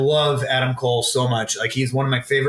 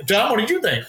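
imitating cohosts; 8 semitones higher, faster than usual. Imitating cohosts asking him.

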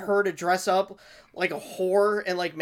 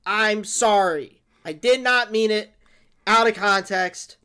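fake apology. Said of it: "why don't you pre-apologize for getting canceled".

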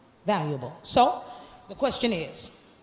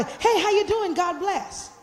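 a brighter, higher, sincere hello; genuine greeting; 8 semitones higher, slower than usual. Shown as a demonstration. Pastor showing churchgoers the greeting she would like, warmly sincere. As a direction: greet them like you truly mean it. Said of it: "I would like".

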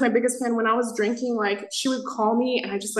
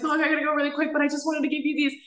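higher-pitched retold plea to mom; lightly acted hasty explanation; retold hurried excuse; 6 semitones higher, faster than usual. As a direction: toss it off quickly in a higher voice.

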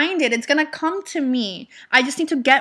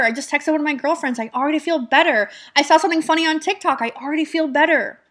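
upbeat affirmation; 4 semitones higher, faster than usual. Shown as a demonstration. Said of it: "What can I focus on to feel good".

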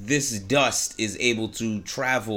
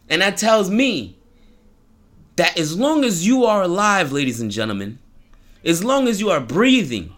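preaching. Acted. Preaching a moral to audience.

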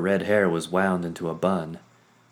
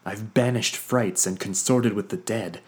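rising indignation; 4 semitones higher, 4 dB louder than usual. Acted. Vondair pushing back, rising.

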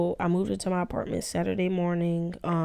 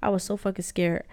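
ordinary delivery

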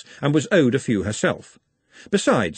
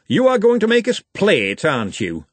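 high, loud complaint that drops at the end; glum; 9 semitones higher, 4 dB louder than usual. A narrator's reading. Lecturer foresees being made to play football, glum. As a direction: grumble glumly at what is coming. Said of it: "said the lecturer in recent runes glumly".

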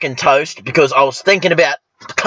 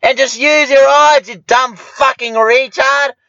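angry rant; 6 semitones higher than usual. Retold or imitated. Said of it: "And I'm like".

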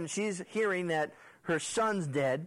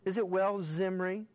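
raised-pitch taunting question, then a drop; acted condescending jab; mocking put-down; 3 semitones higher than usual. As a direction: needle him as if acting her contempt. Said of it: "She's putting him down".

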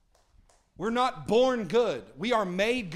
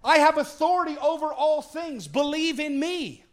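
higher, louder, slow voice of Jesus with authority; bold, lifted voice of Jesus; Jesus speaking; 8 semitones higher, 6 dB louder than usual. Retold or imitated. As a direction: proclaim it as Jesus, commanding but inviting. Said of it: "He was saying".

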